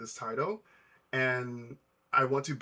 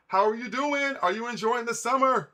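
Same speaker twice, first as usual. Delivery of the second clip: higher, bright upbeat question to a viewer; cheery greeting; 9 semitones higher, 5 dB louder than usual. Real, not acted. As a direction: greet a fan with a lift in the voice. Greeting a chat viewer warmly.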